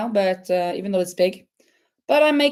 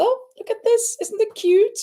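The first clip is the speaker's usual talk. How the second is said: excited showing off; 13 semitones higher than usual. Real, not acted. Showing off her knitted top.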